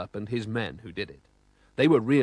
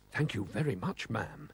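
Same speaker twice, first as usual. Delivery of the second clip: stammering; 2 semitones lower, 7 dB quieter than usual. A narrator's reading. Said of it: "he stammered".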